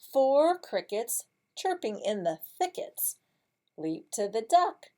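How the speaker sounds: lifted, loud, rhythmic story voice; picture-book reading. Shown as a demonstration. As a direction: read it out brightly in beats.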